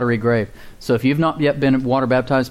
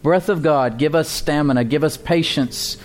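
closing prayer. Acted. Pastor prays over the congregation for strength, earnest prayer. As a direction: pray it unhurried, lifting each plea to God.

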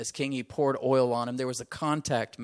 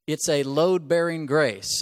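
slow, stress on load-bearing; measured declaration; slow slogan; 5 dB louder than usual. Shown as a demonstration. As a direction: set up the phrase to repeat. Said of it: "Say that with me".

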